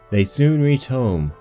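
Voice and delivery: ordinary delivery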